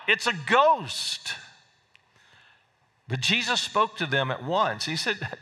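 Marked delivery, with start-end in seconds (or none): 0.1-1.3 high, slow frightened cry of ghost; terrified cry. A narrator's reading. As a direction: cry it out in fear at the figure on the water. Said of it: "they cried out".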